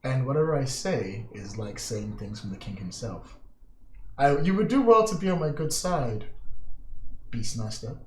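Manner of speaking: smug scheming lord. Acted. GM plays Lord Nomura.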